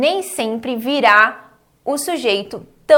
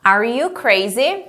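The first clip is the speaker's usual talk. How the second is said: "Are you crazy?" slow, lifting at the end; teacher modelling a rising "crazy?"; question intonation; slower than usual. Shown as a demonstration. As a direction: let "crazy" rise as a question. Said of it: "Faz entonação de pergunta".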